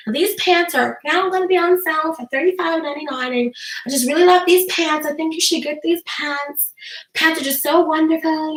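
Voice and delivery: mildly droning fake sales talk; boring sales pitch. Shown as a demonstration. Dull seller pushing pants on viewers, understated bored delivery. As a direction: recite the pitch with little enthusiasm. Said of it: "The boredom".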